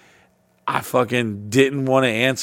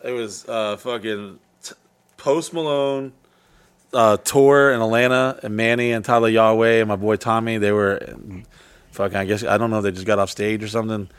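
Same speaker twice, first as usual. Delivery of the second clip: halting, filler-heavy account; cagey recounting. Real, not acted. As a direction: give up just enough, hesitantly. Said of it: "trying to give the police just enough".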